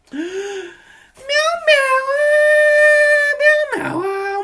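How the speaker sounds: high, loud cat meows. Pretend. Reacting to the big hero kitty card, loud high cat meows. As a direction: meow like an excited kitty.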